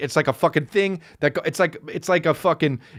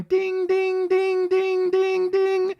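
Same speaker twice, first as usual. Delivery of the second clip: high repeated ding ding like a door alarm; ping it out like a car chime; mock car door chime; car chime imitation; 14 semitones higher, much slower than usual.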